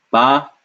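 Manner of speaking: "Pa-kis-tan" split into three clear syllables. Shown as a demonstration. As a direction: sound out "Pa-kis-tan" one syllable at a time. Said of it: "Let's separate this".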